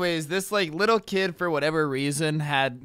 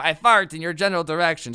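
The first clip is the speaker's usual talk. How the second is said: mock French taunting voice; hammed-up French insult; louder mock French knight; Monty Python French taunt; 5 dB louder, faster than usual. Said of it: "Monty Python, the French dudes".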